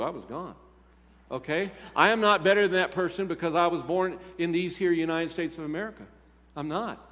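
ordinary talk

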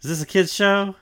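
mock disbelief at what the show gets away with; half-joking indignant cry; incredulous outburst. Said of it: "It's like".

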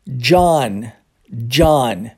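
"John" with an open ah vowel, low; English John. Shown as a demonstration. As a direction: model "John" as "Jahn", falling. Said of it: "olha só que há uma diferença".

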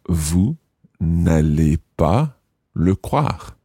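slow, careful French, rising at end; slow model phrase. Shown as a demonstration. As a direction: say it slowly for learners to repeat. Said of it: "if we want to use the vous form".

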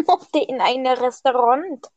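slow echo at ordinary pitch; mimicked line. Repeats the line after laughing.

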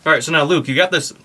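talking while chewing; mouth full. Real, not acted. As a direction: speak through a mouthful of food. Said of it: "I got a mouthful of food".

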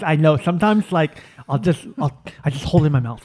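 fast, silly pet voice; dog's inner voice. Pretend. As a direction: rattle it off as the dog. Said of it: "your indie voice".

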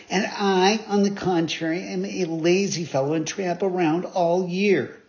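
put-on puppet boy. Pinocchio confessing laziness to the fairy, lightly boyish. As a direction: own up with cheek.

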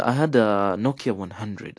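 ordinary delivery

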